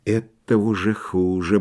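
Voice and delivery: slow, soft muttering. A narrator's reading. Myshlaevsky to himself on the stairs, muttering. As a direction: mutter it under your breath. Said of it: "бормотал Мышлоевский".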